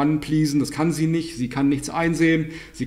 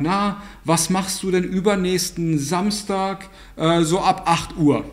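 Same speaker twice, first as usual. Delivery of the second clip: innocent-sounding asking; 3 semitones higher, slower than usual. Retold or imitated. Mocking a manipulative question.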